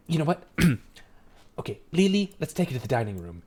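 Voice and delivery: hurried, softly voiced dad; distracted dad keeping it down; father character. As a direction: usher her along in a hushed fatherly voice. Game master voices the father.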